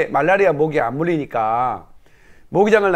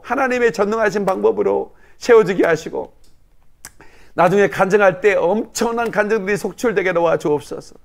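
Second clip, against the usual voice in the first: praying aloud with rising fervor; fervent prayer. Acted. Pastor leading the congregation in prayer, fervent. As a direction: pour it out as a preacher's prayer.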